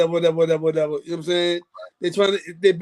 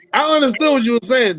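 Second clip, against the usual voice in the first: louder, pressing each word home; emphatic insistence; 6 dB louder than usual. Real, not acted. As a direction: say it like you mean every word. Repeating line to friend, teasing.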